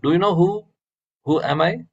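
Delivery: high-pitched indignant question; frustrated anger. Acted. Alexander demands to be recognised by the sadhu, frustrated anger. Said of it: "he's frustrated and anger".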